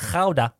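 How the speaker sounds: gouda with a throaty Dutch g, KHOW-da; Dutch pronunciation. Shown as a demonstration. Teaching co-hosts the Dutch cheese name, gouda said KHOW-da. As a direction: open gouda with a raspy kh. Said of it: "det korrekta då, nederländska uttalet".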